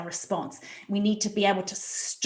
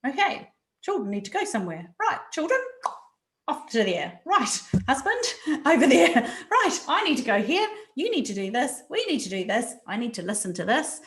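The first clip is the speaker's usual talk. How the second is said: crisp, higher, taking-charge directions; brisk organised mum; 3 semitones higher than usual. Retold or imitated. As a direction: hand out orders to the family briskly. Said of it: "calmly going through things going".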